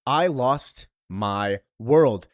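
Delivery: very slow, heavy; slow grief. Retold or imitated. Ruthie telling Supergirl of her loss, slow and heavy. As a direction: drag out each word in grief.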